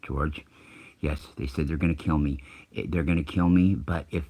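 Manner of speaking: imitating a caller who has turned calm and matter-of-fact; suddenly composed. Caller back on air after the silence, explaining to host, composed. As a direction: retell the death threat evenly, panic gone. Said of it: "his voice, his demeanor is completely changed".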